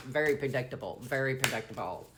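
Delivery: a hint of a New Jersey accent; slipping New Jersey accent. Real, not acted. Psychic reader repeating herself as her accent slips, hint of New Jersey. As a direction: let New Jersey creep into a Southern voice. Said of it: "almost like my accent was changing".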